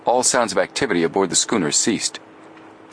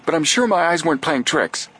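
raised, eager exclamation; excited exclamation; 9 semitones higher than usual. Acted. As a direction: insist excitedly. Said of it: "Joe exclaimed".

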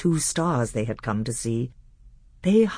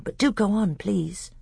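put-on higher, eager boy's voice; young prince voice; 6 semitones higher than usual. A narrator's reading.

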